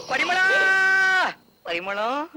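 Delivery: calling for his wife through tears; a loud cry that turns into sobbing. Acted. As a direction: shout her name, then break into crying. Crying out for wife.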